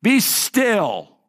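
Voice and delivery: Jesus commanding the wind and waves, shouting. Acted. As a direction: order the storm to stop. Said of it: "and he says".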